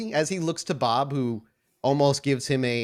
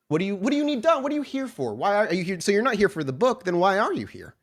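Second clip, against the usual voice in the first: higher, frantic pleading questions; panicked Garrett; 4 semitones higher than usual. Acted. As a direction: scramble to stay alive. Garrett panicking for his life.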